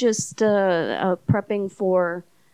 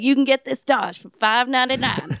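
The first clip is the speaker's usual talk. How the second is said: TV car salesman; 4 semitones higher than usual. Retold or imitated. Narrator mimics a cheesy TV car salesman. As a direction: sell it like a cheesy car commercial. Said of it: "selling me a car on T V".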